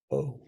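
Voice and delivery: "O" as the vowel in taco; pronounced O. Shown as a demonstration. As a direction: say a separate round "O". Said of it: "It's pronounced".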